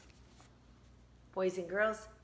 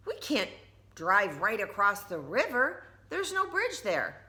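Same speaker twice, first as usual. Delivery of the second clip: higher, patient mom explaining; gently explaining mother, voice lifted; Tina's mom; 3 semitones higher than usual. Acted. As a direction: mom telling Tina there's no bridge, patient. Mom voice, high.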